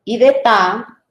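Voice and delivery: slow, crisp "ta" said apart; showing the T needs the A; syllable ta. Shown as a demonstration. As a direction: tap out "ta" as a separate syllable. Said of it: "la T sin la A no tiene sonido".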